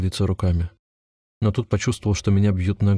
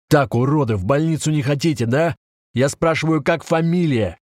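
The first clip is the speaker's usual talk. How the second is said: angry shouting cop; 6 semitones higher than usual. A narrator's reading. Cop demands the surname, shouting. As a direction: bark the question at them.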